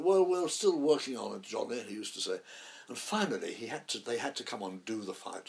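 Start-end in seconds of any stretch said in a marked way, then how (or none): 0.0-1.8 Richardson. Retold or imitated. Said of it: "Ralph said".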